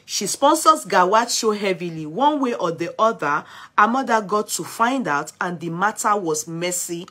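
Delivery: loud, emphatic read of a gossip story; projected read-aloud of scandal news. Real, not acted. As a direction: read it out firmly, punching the phrases. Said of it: "let me see if I can read the story".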